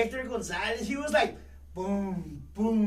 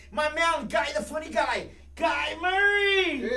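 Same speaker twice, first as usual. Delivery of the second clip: hype introduction; 3 semitones higher, slower than usual. Acted.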